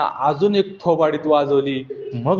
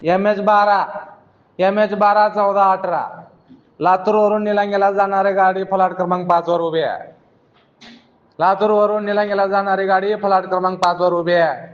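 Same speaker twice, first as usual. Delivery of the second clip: bus stand announcement; 3 semitones higher than usual. Retold or imitated. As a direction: announce it over the speaker like a depot clerk. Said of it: "त्या स्पीकरवरून आवाज आला". (बस स्टँडवरची उद्घोषणा)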